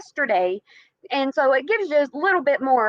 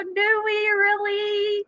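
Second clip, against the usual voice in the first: sceptical; 5 semitones higher, much slower than usual. Acted. Sceptical aside to viewers.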